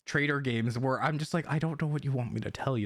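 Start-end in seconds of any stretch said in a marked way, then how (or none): 1.5-2.9 deadpan. Retold or imitated. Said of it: "a deadpan voice".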